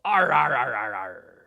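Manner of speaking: string of pirate arrs, falling away; pirate yell. Shown as a demonstration. Pirate showing children how pirates yell, repeated falling arrs. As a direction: rattle off arrs, dropping as you go. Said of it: "the way that we pirates like to yell".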